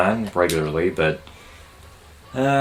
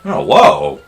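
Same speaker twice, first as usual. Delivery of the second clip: excited yell; 7 semitones higher, 9 dB louder than usual. Real, not acted. Reacting to game surprise.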